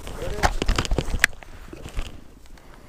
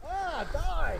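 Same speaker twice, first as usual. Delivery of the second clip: high pitched outburst at the bird; excited; 10 semitones higher, 4 dB quieter than usual. Real, not acted. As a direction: spit it out, high and quick. Bird falling after the shot.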